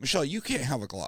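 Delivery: ordinary delivery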